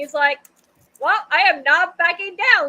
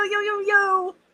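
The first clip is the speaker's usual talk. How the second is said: high, pitched-up character voice; 5 semitones higher than usual. Showing another speaker a Rainbow Dash voice. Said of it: "this is why Rainbow Dash voice".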